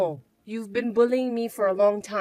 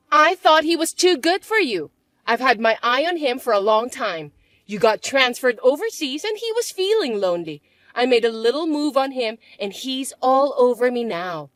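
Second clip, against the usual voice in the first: bratty stepsister; 3 semitones higher, 7 dB louder than usual. Acted. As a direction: drag out the taunt.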